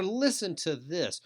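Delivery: high, drawn-out boast; acted one-upper; one-upping. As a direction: demand attention to outdo them. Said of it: "one-upping or trying to do".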